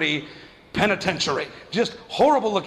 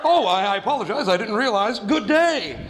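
prim mock apology; 2 semitones higher than usual. Mocking mom's stiff reply.

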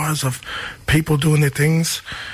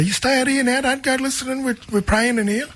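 mock stern elder; 9 semitones higher than usual. Grandparents telling the kids to stay out.

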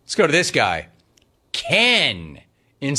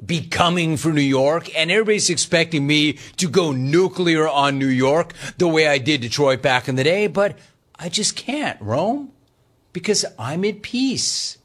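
syrupy calm radio, half-joking; mock nice radio; 2 semitones higher than usual. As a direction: play the peaceful, nice host in jest. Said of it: "why don't we do nice radio?".

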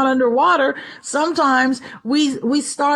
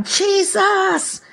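cried out; 7 semitones higher than usual. Retold or imitated. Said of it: "He cried out".

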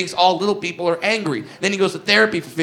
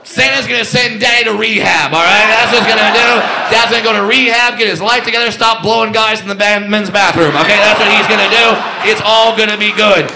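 loud mock promise; 4 dB louder than usual.

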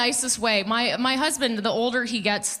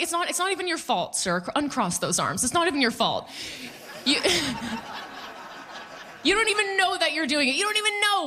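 mock soothing; 6 semitones higher than usual. Consoling a snoring husband.

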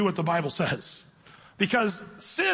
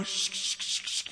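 whispered shh shh to hush someone; mock shushing; 8 dB quieter, slower than usual. Preacher mocking legalists, whispered shushing. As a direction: hush the listener with a breathy shh. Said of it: "the Acts fifteen people saying".

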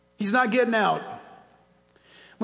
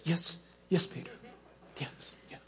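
hushed, submissive little replies; very soft and low, fading almost to nothing; meek church; 5 semitones lower, 13 dB quieter than usual. Acted. The church answering commanding Peter, meek and hushed. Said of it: "The church is like this".

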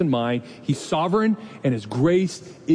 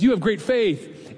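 tender praise; 6 semitones higher, slower than usual. Acted. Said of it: "Jesus looks at her and says".

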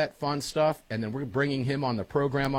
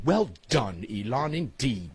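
mock posh English accent, well done Elon; hammed-up English accent praise; 2 semitones lower, slower than usual. Host toasting Elon Musk to listeners in an English accent. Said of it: "to be spoken in my best English accent".

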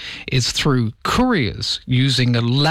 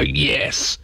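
mock triumph; slower than usual. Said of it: "You'd go".

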